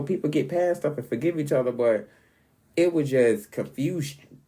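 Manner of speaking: usual speaking voice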